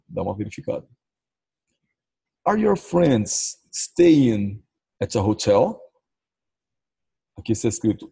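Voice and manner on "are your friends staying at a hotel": each word slow and clear for learners; slow model question with a rise at the end; slow teaching read. Shown as a demonstration. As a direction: sound it out slowly, like a teacher. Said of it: "teacher models the sentence".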